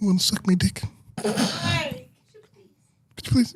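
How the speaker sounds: barely voiced, hushed, timid whisper. Imitating a timid man asking his woman for something: imitating a whisper. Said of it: "or they whisper".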